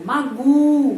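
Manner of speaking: Magu loud, stress on the U; stress demo. Shown as a demonstration. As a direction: hit the U in Magu. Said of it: "penekanannya pada huruf U".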